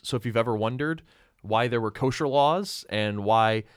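cheesy cliffhanger trailer read; bad teaser voice. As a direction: tease next week like a bad promo. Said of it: "that's my bad teaser voice".

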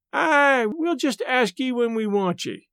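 high, slow, curt northern woman; blunt northern brush-off, drawn out; northern accent. Acted. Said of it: "in a northern accent".

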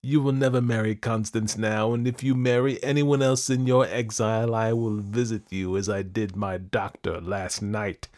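loud, high threat, easing gradually; crying out. A narrator's reading. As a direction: dismiss them with menacing triumph. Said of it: "I cried to Louis".

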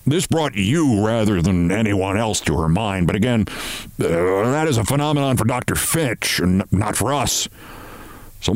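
ponderous boss with halting pauses; pompous, hesitant chief. Acted. Chief explaining Missus Barrows's dismissal, pompous. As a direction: lean on the long words, groping for others.

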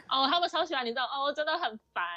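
put-on Taiwanese accent. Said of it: "他想要听你讲那个台湾腔".

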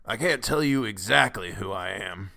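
put-on cracked old man's voice; querulous whine. A narrator's reading. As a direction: whine it like an ancient man. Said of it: "replied the querulous wine".

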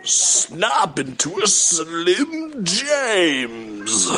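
slow, drawn-out British wrestler growl; British Randy Savage. Retold or imitated. Comic doing a British Randy Savage catchphrase slowly. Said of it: "my impression of a British Randy Savage".

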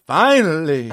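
loud, high mock cheer; excited cry. A podcaster acting Elm's loud relieved cheer.

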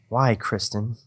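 ordinary delivery

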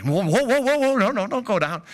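high, loud alarmed shouting; panicked yell. Retold or imitated. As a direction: yell it like a frantic coach on the headset. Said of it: "And like".

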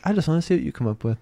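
quick retold whisper. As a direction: whisper it back teasingly. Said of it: "And she was like".

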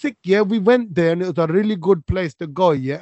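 lightly put-on Desi twang; mock Brit-Asian twang. Host showing the twang he can't stand, mock Brit-Asian accent. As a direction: imitate young Brit-Asian slang talk. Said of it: "Brit-, Asian twang, innit".

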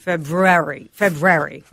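February squeezed to FEB-rairy; February clipped down to "Feb-rary"; three-syllable February. Retold or imitated. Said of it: "moved it to a three-syllable word".

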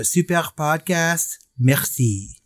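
slow, hammed-up French accent; light mock French accent, slowly drawn out. Shown as a demonstration. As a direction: read it out like a mock French reviewer. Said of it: "let me see if I can do a French accent".

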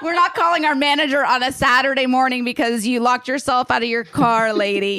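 snooty put-down with a laugh; dismissive barista. Retold or imitated. Coffee shop staff brushing off the locked-out lady, snooty and amused. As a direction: look down your nose at her.

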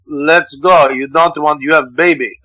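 lightly voiced Russian woman superintendent; Russian accent. Superintendent warning the new father off a fight, light Russian accent. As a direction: give it a hint of a Russian accent. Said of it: "Russian superintendent, this woman".

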